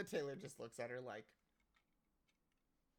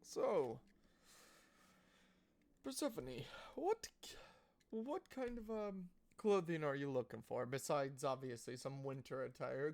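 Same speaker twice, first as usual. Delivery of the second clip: tailor fussing over a customer; lightly voiced gossipy tailor; chatty tailor; 4 dB louder than usual. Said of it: "and he goes".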